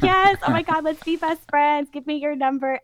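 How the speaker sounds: high, loud gushing yes; thrilled to find a friend; excited. Retold or imitated. Retold excited reply.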